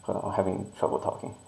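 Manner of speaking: short of air in a mask; gasping for air behind a mask; out of breath. Real, not acted. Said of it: "I need to breathe".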